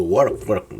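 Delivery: "work" said as "wark", with an open vowel; old mistaken pronunciation. Retold or imitated. Teacher mimics how they used to say it, "work" mispronounced. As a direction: imitate your old wrong "work", vowel wide open. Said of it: "como le decía yo".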